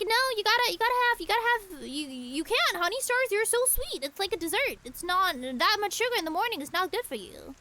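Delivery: mock-strict mother lecturing her kid about sugar; imitating strict mom. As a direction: mimic mom refusing the cereal, half-mocking. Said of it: "And she was like".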